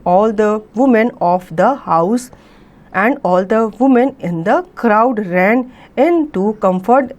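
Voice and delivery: very slow, careful read-aloud of an English story. A narrator's reading. Teacher reading the story to students, very slow and clear. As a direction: read each phrase slowly so the class can follow.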